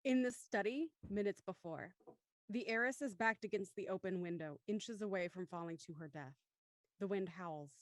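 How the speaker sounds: measured scene-setting narration; story narration. A narrator's reading. Narrator moving to the study minutes before, measured narration. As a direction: narrate evenly, falling at phrase ends. Reads stage directions.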